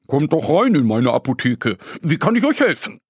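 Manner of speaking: lightly voiced friendly stag; stag calling in. The stag pharmacist greets Annie and Mo, lightly voiced and friendly.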